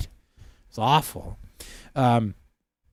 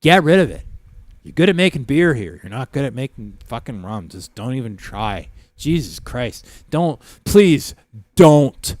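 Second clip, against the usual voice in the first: retold barroom rant with loud bursts; hammed-up disgust at the bartender; exasperated mock tirade; 8 dB louder than usual. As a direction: build to loud, punched-out pleading.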